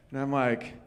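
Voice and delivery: normal talking voice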